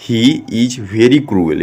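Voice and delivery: slow, word-by-word read-out; slow model reading. Shown as a demonstration. Teacher shows pupils how to read the sentence, slow model reading. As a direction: read it slowly for learners to repeat. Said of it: "तो आप लोग पढ़िएगा".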